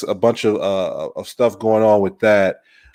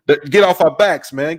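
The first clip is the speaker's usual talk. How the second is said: mock protest; 6 semitones higher, 3 dB louder than usual. Mock protest at Army joke.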